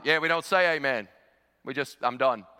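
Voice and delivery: imitated blunt Aussie; lightly put-on Australian bloke; Australian accent. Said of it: "this big Australian guy".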